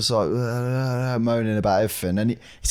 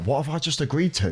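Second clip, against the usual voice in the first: slightly raised, contained worry; mild inner alarm; 4 semitones higher than usual. Retold or imitated. Realising he nodded along to an old man, mild alarm. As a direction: wonder it privately, a touch alarmed. Inner thought after blindly agreeing.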